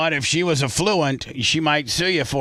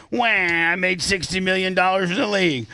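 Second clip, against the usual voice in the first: mock crybaby; 5 semitones higher than usual. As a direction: fake wailing, whiny. Mock crying plaintiff.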